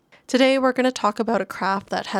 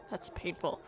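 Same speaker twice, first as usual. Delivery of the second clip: whispered mock wince; 3 semitones lower, 10 dB quieter than usual. Wincing aside about chainmail.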